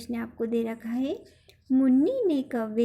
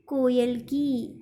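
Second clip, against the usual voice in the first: कोयल की drawn out very slowly; slow dictation; 4 dB louder, much slower than usual. Shown as a demonstration. Teacher dictating the answer to her pupils, very slow. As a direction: dictate कोयल की word by word so they can write it. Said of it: "इस तरह से कोयल की लिखना है आपको".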